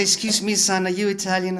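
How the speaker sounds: Italian lady in the queue offering to help; polite Italian lady. Retold or imitated. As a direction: ask it kindly like an older Italian woman. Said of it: "an Italian lady in the queue".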